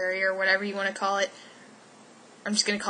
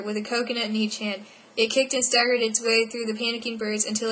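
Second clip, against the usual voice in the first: reading aloud; 3 semitones higher than usual. Acted. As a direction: read the book passage aloud like a story. Reads a random paragraph aloud.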